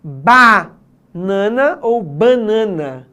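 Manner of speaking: "banana" slowly, first nasal "bã", then open "ba"; slow demo of two "banana" pronunciations; both ways shown. Shown as a demonstration. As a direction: contrast "banana" nasal and oral, drawn out. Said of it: "Você escolhe".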